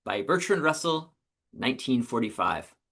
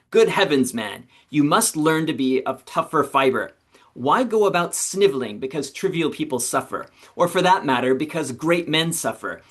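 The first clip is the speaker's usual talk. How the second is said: put-on Nietzsche with an imagined German accent. Teacher voices Nietzsche scolding the Buddha, mildly forceful. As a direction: bark Nietzsche's rebuke with only a pretend German accent. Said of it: "so just pretend I am".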